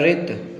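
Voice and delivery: रित as one short syllable ending on t; careful reading. Shown as a demonstration. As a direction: read रित exactly as spelt, no u at the end. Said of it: "ऋतु नहीं लिखा है, रित लिखा है".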